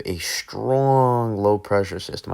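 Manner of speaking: accidental New York accent, leaning hard on strong. Real, not acted. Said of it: "said that with a New York accent".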